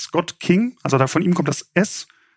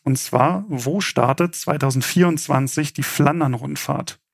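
game show host. Acted. Host reads quiz question.

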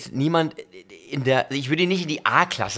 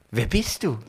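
Michelle Pfeiffer as Catwoman; 4 dB quieter than usual. Acted. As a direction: purr the question like a femme fatale. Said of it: "Okay, nochmal".

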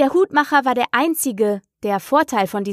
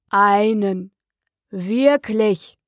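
understated affronted Dormouse; indignant; much slower than usual. A narrator's reading. Dormouse offended by Alice's concession, mildly indignant. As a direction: query each word with slight offence. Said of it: "sagte das Murmeltier entrüstet".

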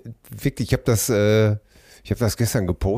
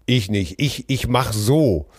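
lightly voiced children's book horse; 2 semitones lower, slower than usual. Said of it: "das Pferd, das sagt".

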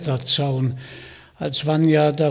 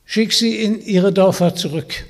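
commanding; 5 semitones higher, 5 dB louder than usual. Acted. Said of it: "befahl Vanya".

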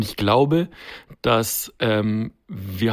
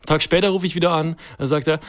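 ordinary talk, nothing marked

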